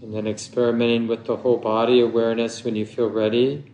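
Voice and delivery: unhurried meditation guidance with long pauses; measured meditation teacher, phrase by phrase; guided meditation. Acted. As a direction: guide listeners gently into stillness, leaving long silences.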